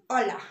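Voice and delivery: hola said "OH-la"; silent H. Shown as a demonstration. Teacher showing how to say hello, hola with silent H. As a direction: say hola in Spanish with no H sound. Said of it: "When you pronounce it".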